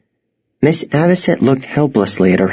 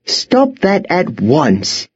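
higher, slow command without extra volume; stern shout; 7 semitones higher, much slower than usual. A narrator's reading. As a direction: call a halt, stretching the words. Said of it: "Miss Peregrine shouted".

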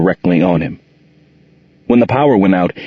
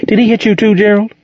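alarmed; 13 semitones higher, faster than usual. A narrator's reading. Monique alarmed for Gerald.

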